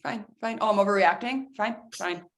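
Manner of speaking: grudging, sulky muttering then a huff; sulking mock concession. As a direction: pout and give in resentfully. Sulky mock reply to calm down.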